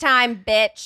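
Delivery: caveman-like put-on voice. Imitating what the other speaker says when going full caveman: caveman-like voice. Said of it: "I go full, like, caveman".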